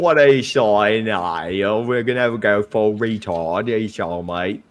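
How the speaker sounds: garbled, badly faked English accent; hammed-up English accent, slurring the words together. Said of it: "you sound like you got a fucking head injury".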